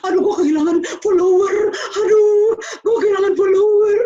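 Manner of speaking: loud, high, hammed-up sobbing lament; mock crying wail. Teasing a follower-obsessed teen, loud mock crying. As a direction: wail it like a melodramatic crybaby. Mocking someone who lost followers.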